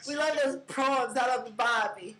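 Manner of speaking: put-on Australian accent, lightly done; mock Australian accent. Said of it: "With the Aussie slang".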